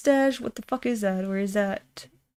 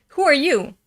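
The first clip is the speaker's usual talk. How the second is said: character voice; 6 semitones higher, 4 dB louder than usual. Acted. Voicing manga character confrontation.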